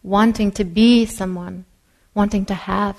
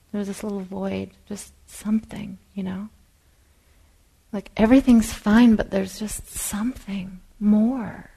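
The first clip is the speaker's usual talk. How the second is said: hushed whisper. Acted. Describing a quiet inner void.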